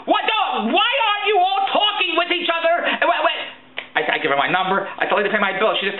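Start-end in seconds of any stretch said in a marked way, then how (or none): 0.1-3.4 much higher, incredulous protest; exasperated outburst. Acted. Caller protesting to departments that don't talk, exasperated. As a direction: erupt in comic indignation. Acted outburst at being asked again.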